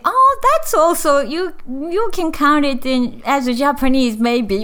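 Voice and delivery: voicing a doubtful Japanese person, light laugh at end; half-joking imitation of a typical Japanese view; Japanese listener's thought. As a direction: voice jumps high on oh, then settles. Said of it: "most Japanese think".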